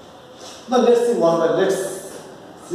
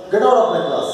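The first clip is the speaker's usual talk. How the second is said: command; 4 dB louder, faster than usual. Shown as a demonstration.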